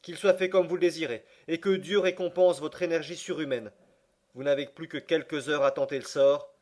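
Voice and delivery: plus aigu, de plus en plus fort jusqu'au « En route! » crié; céder avec fougue; s'écrier avec élan. Acted. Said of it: "m'écriai-je". (le neveu accepte avec ardeur, finit en criant)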